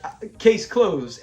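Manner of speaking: slow, drawn-out case closed; quoting case closed. Retold or imitated. Fan repeating Fred's catchphrase, slow and amused. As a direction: savour each word of case closed. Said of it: "I love when he does that".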